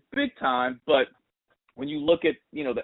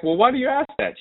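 high, louder, puzzled "why"; surprised question; 13 semitones higher, 6 dB louder than usual. Retold or imitated. Teller asks the mom why she wants to know, loud and puzzled. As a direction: push back curious and loud.

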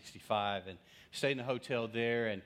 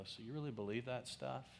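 casual tease; 2 semitones higher, 8 dB quieter than usual. Retold or imitated. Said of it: "I'll just casually go".

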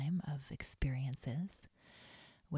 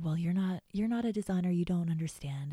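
bratty retort; 3 semitones higher, 4 dB louder than usual. Retold or imitated. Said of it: "And I said".

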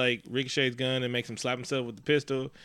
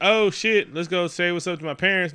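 retold excitement; 4 semitones higher, 4 dB louder than usual. Retelling Jake's excited arrival.

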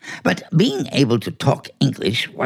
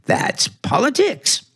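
sly whispered remark; whispered aside; 9 semitones higher than usual. Acted. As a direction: let him in on a dirty secret. Cat confides cynically.

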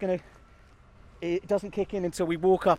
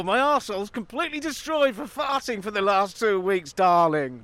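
mock reluctant darling; 3 semitones higher than usual. The speaker turning down a bean feast invitation, comic role-play. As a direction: play a put-upon partner declining an outing.

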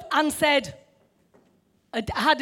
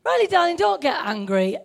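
quiet and calm; 4 semitones higher than usual. Retold or imitated. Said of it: "Just very quiet, calmly".

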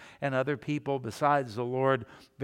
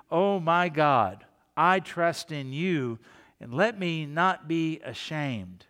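heartfelt; slower than usual. Acted. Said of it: "in a heartfelt way".

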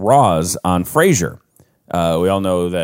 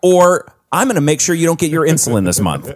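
raised, hammed-up tirade at nana; mock outraged scolding; 9 semitones higher than usual. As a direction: berate your grandmother in comic outrage. Acts out berating his grandmother.

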